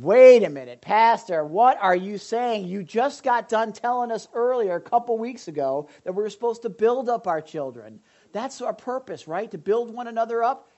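objecting congregant. Pretend. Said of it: "imagined objecting congregant".

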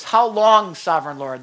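loud calling cry to the Lord. Acted. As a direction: call out loudly to heaven. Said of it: "called out in a loud voice".

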